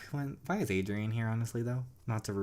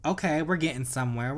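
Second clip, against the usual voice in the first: excited; 3 semitones higher than usual. Real, not acted. Excited progress in game.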